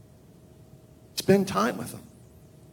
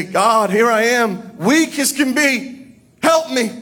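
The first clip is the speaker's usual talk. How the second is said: humble plea for help; 8 semitones higher, 3 dB louder than usual. Pretend. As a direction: beg God for help from weakness. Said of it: "But if you say".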